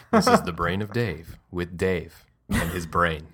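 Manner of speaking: low eerie host voice; spooky voice. Pretend. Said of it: "This is what my brain sounds like".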